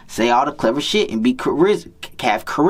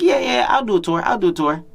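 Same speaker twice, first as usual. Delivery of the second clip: mimicking a girl; 7 semitones higher, faster than usual. Girl eagerly agreeing, mimicked.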